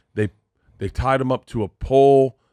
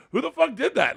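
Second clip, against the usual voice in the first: high-pitched mock bafflement; incredulous question; 14 semitones higher than usual. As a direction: imitate someone utterly baffled. Retold baffled celebrity's question.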